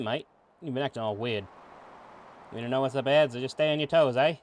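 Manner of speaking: amateur Aussie accent, lightly hammed up; bad Australian accent. Streamer voicing Kid talking to Serge, terrible Australian accent. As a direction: do a chummy but badly faked Australian. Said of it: "How do you like my terrible, uh, Australian accent".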